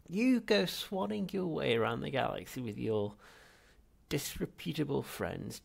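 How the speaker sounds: put-on high, loud bitter old man; ranting old ghost. Ancestor ranting at neglectful heir, loud. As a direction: tear into him, indignant.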